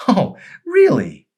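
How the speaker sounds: high, loud, slow mocking retort; sarcastic challenge. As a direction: taunts her husband's denial.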